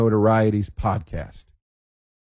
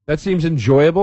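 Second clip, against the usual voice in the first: eager guest; 5 semitones higher than usual. Retold or imitated. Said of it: "Do people say".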